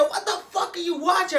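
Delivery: high, loud mock shout from the brother; imitating a brother bursting in, shouting; brother yelling. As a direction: yell it like the barging-in brother. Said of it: "my brother comes out and said".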